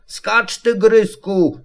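put-on high, light boyish call; high encouraging call without shouting. A narrator's reading. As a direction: call up to a friend, pitched high. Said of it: "zawołał Krzyś".

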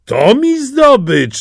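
put-on high, slow, pleased old woman; old woman exclaiming. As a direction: gloat slowly over the catch. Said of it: "zawołała".

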